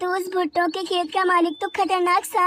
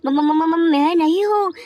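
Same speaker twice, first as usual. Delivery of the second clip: stuttering in fright on the first sound; scared stammer; 3 dB louder than usual. Acted. Hari, caught by the snake, stammers out a frightened denial. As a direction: trip over the words, caught red-handed.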